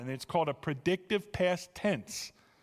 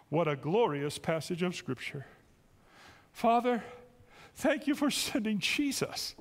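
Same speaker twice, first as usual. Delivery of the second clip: earnest closing prayer, fading to a hush at the end. Acted.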